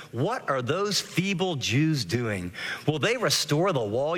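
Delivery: slow, mocking scorn at the feeble Jews; sarcastic. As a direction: sneer it out like a scoffing enemy. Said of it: "You can hear the sarcasm in his voice".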